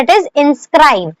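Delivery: inscribe read out very slowly; slow dictation. Shown as a demonstration. Teacher dictating inscribe slowly to her students. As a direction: stretch every sound for the class. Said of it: "हमारे पास दूसरा word है".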